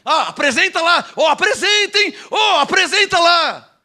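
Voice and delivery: high mock pestering plea; exaggerated, careless sing-out; lazy, habitual request. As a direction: imitate a serial prayer-asker. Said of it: "na cinquenta vezes ela já".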